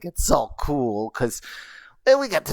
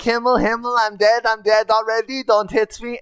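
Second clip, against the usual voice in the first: higher, pleading goblin squeak; squeaky goblin plea; 7 semitones higher than usual. Retold or imitated. Goblin pleading with the knight not to hit, squeaky. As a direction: beg for mercy like a small goblin. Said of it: "I used all of the squeaky sounds".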